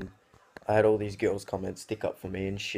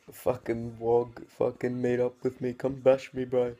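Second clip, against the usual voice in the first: mock tough kid; 3 semitones higher, 3 dB louder, slower than usual. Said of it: "he inboxes me saying".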